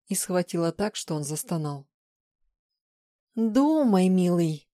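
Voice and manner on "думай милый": angry. A narrator's reading. Woman forcing her captive to think, angry and loud. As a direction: press him angrily, leaning hard on the command. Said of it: "зло произнесла она".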